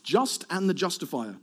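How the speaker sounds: voicing Paul. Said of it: "just to say".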